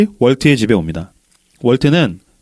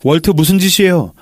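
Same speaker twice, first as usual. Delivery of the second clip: higher-pitched, acted indignant protest; angry protest; 4 semitones higher than usual. Tao locked in the basement pounds the door, protesting angrily. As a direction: demand an answer, pitch climbing toward the end. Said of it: "막 화를 막 내요".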